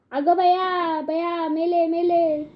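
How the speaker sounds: high, wailing mock shriek; frightened woman's scream. A narrator's reading. Startled woman screams at the red monkey face, shrieking. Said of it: "एकदम बाई ओरडली".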